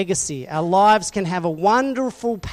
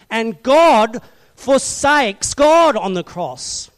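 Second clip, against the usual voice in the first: ordinary delivery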